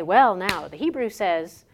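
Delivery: loud, pompous pulpit voice, lightly put on; mock TV preacher. Speaker imitating a TV preacher showing off Hebrew from the pulpit, loud mock preacher voice. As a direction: puff up like a TV preacher announcing the Hebrew. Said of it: "a T V preacher".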